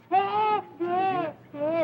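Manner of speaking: hammed-up childish bawling; short wailing sobs; theatrical sobs. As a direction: cry in repeated little bleats. Daughter bawling at being yelled at.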